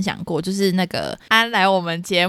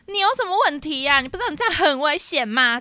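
high, indignant mock yell at the driver; retold angry yell; 9 semitones higher than usual. Pedestrian yelling at a speeding driver, high mock anger. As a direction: snap at him like a fed-up pedestrian. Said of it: "大吼说".

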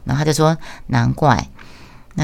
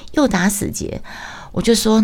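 normal talking voice

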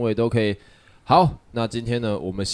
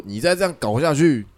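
stern doctor. Retold or imitated. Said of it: "超凶".

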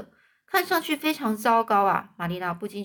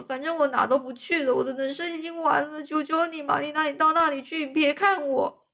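put-on a girl's voice sunk in dramatic despair, higher; 5 semitones higher, 3 dB louder than usual. Anne begging Marilla not to look, despairing. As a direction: beg her to go away, theatrically hopeless.

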